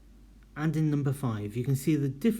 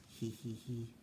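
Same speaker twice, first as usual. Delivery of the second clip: giggle; 2 semitones lower, 15 dB quieter than usual. Real, not acted. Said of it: "I've missed out all the commas".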